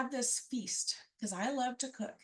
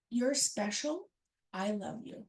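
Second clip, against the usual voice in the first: put-on dad tells a child on his lap, tenderly; 4 semitones lower, slower than usual. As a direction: reassure a small child gently.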